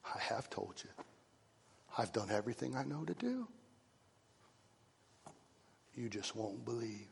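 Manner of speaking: kindly. Acted. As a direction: plead kindly, softly. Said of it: "And Jesus said to them kindly".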